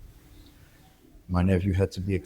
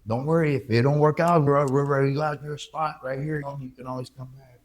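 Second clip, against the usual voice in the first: higher, mock-cheerful send-off; sarcastic well-wisher voice; mock farewell; 6 semitones higher than usual. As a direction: imitate society waving him off. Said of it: "they throw you out there. Like".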